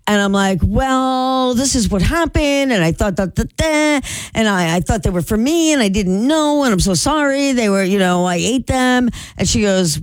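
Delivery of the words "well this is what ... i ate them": higher, mock flustered apology; apologizing to the peach owner's wife, mock flustered. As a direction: babble sorry in a higher, nervous pitch. Apologizing to angry neighbor.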